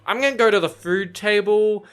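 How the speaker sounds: high, hesitant, timid mumble with nervous laugh; meek nervous self trying to talk to the bachelor; awkward shy me. Pretend. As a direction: stammer shyly like a wallflower at a party. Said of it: "I'd be like".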